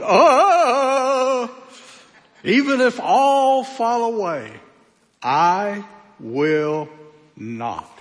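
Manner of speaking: a rash disciple swearing he'll never fall; boastful Peter. Retold or imitated. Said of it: "I imagine him jumping up in a loincloth going".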